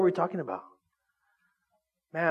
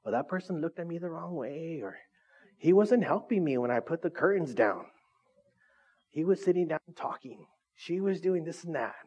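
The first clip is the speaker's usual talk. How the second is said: petty complaining; 6 dB quieter than usual. Retold or imitated. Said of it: "the love that's keeping score".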